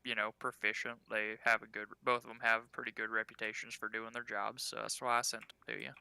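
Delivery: a low, matter-of-fact innkeeper. Acted. Game master continues as innkeeper.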